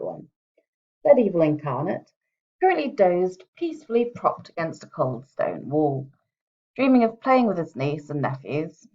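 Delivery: measured, even storybook reading; story narration. Acted. Author reading her own book's first chapter to listeners, steady narration. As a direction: read the chapter like an audiobook narrator. Reads her novel aloud.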